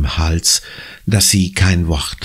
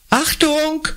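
shouted warning. A narrator's reading. Neighbour shouts at Conny racing onto the path. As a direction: yell a sudden warning. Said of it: "schreit Frau Sandulescu".

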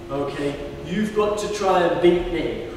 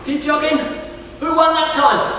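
excited; 7 semitones higher, 3 dB louder, faster than usual. Real, not acted. Excited race with kids.

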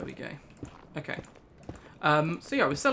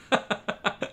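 breathy rattle of laughter; 4 semitones higher than usual. Real, not acted. Streamer laughing after joking they will cry, breathy laugh. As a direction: laugh it off helplessly.

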